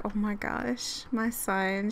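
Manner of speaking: soft, tender murmur; happy new mother. Acted. Player voicing Aspen with her son, happy and tender. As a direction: murmur it slowly as a doting mother. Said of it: "She's so happy".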